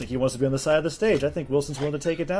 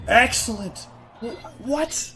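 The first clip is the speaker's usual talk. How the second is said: shocked high yelp; surprised; 11 semitones higher, slower than usual. Real, not acted. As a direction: caught off guard mid-call. Shock at the mine explosion.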